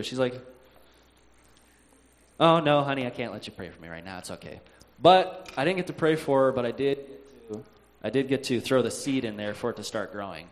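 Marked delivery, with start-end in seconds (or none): 2.4-4.6 real calm. Retold or imitated. Aunt declining grandchild's offer of prayer, imitated calm. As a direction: imitate a calm aunt, fading away after "no". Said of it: "she gets real calm".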